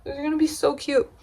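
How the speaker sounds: high, fast gushing squeal; breathless delight, high and quick; excited gush. Real, not acted. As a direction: squeal over how tiny they are. Gushing over tiny clothes.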